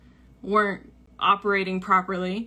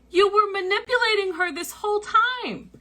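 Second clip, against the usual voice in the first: blunt accusation; 11 semitones higher than usual. Retold or imitated. Friend's blunt accusation retold.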